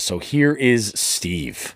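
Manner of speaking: slow, hushed whisper. Acted. Host introduces the caller's video in a slow whisper. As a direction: hush it like a big reveal.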